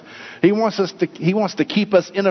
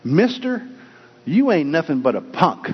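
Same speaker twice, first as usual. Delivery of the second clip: talking parrot. Acted. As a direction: toss out a parrot's taunt, pitch jumping then dropping. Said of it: "the parrot again said".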